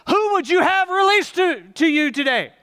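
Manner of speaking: loud, high proclamation to the mob; Pilate. Acted. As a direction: call out over the crowd as Pilate. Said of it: "I'm Pilate".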